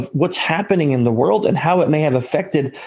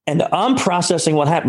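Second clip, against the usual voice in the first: usual speaking voice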